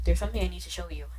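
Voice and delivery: put-on Southern accent; Walter. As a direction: deliver a warning in a Southern accent. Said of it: "I don't know why I'm giving him a southern accent".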